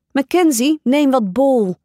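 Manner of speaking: high yell, building into a taunt. A narrator's reading. Chloe and Zoe throwing the bowl, high shout at Mackenzie. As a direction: hurl the name at her. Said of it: "en gilden daarbij".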